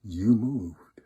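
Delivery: lightly gruff wolf accusation; accusing wolf. A narrator's reading. Wolf accusing little daughter, lightly gruff voice. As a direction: pronounce the verdict as the wolf. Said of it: "And he says to her".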